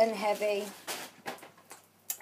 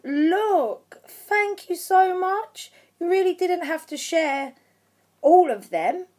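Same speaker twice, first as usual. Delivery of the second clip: high, drawn-out, touched thanks; overwhelmed gratitude; 5 semitones higher than usual. Real, not acted. Vlogger thanking her friend for the gift, overwhelmed. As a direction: thank a friend as if close to tears. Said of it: "gonna try not to cry".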